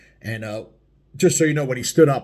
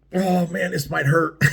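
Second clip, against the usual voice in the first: higher-pitched "uh-oh", breaking into laughter; mock dread; 7 semitones higher, 3 dB louder than usual. Biker retelling the moment he let go, laughing mock dread. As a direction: play the worry for laughs, then crack up. Acting out his own dread on release.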